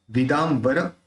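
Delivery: विदाम्बर with the dot sounded as an m; म उच्चारण. Shown as a demonstration. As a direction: close the lips on the म in विदाम्बर. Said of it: "उसका उच्चारण अपन म करते हैं". (विदाम्बर में बिंदी का म उच्चारण)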